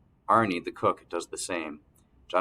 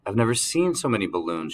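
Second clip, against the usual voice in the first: delighted; 3 semitones higher than usual. Acted. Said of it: "she says, delight in her voice".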